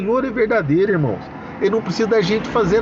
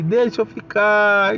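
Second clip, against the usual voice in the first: put-on higher, slow childish plea; child begging to stay; 4 semitones higher, slower than usual. Boy hugging father's leg, slow higher begging. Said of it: "ele gruda na perna do pai e fala".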